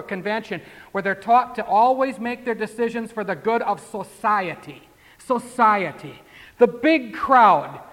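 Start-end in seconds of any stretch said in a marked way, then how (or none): 5.2-7.8 mocking scorn. Mocking the judges' concept.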